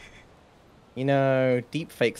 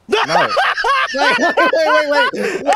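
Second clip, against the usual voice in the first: wheezing through laughter; pleading while cracking up; laughing; 10 dB louder than usual. Real, not acted.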